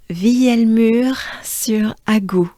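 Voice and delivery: "Vielmur-sur-Agout" whispered slowly in French. Shown as a demonstration. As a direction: breathe out each syllable of "Vielmur-sur-Agout". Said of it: "This is so French".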